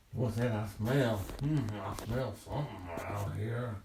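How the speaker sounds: lightly voiced bear, loud and curious; sniffing bear. Bear fishing by the river catches a smell, loud and puzzled. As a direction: puzzle aloud as a nosy storybook bear.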